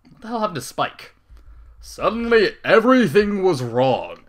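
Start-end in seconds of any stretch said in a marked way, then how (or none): none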